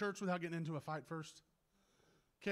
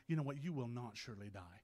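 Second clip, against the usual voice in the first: low, soft tempter's line; devil tempting; 9 semitones lower, 5 dB quieter than usual. Acted. Devil telling them lies about death, low and soft. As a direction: drop deep and quiet to deceive.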